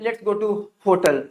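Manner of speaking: hotel said HOE-tl, round "o"; common mispronunciation. Shown as a demonstration. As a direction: say hotel with a closed "o". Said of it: "आप लोग भी इसे क्या बुलाते होंगे?". (hotel को "होटल" बोलें)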